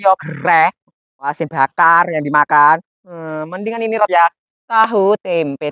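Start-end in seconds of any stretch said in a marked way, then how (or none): 4.7-5.7 ejekan panjang, "tahu tempe" diucapkan sangat lambat; mengejek pelan. Acted. Mocking neighbor's menu. ("tahu tempe" diseret lambat, nada menyindir)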